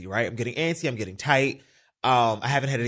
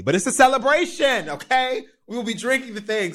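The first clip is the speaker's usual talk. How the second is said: raised, celebratory outburst; celebratory exclamation; 8 semitones higher than usual. Real, not acted. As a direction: exclaim it like starting a party. Defending a morning drink.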